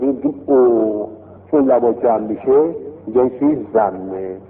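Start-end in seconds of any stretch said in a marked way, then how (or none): 0.5-1.1 «او» drawn out through gathered lips; rounded-lip vowel. Shown as a demonstration. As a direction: round your lips and hold a long «او».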